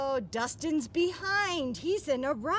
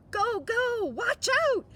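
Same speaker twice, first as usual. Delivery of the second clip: higher, louder excited shout; shouting racer; 8 semitones higher, 6 dB louder than usual. Acted. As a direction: yell it from a speeding car. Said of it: "you hear him shout".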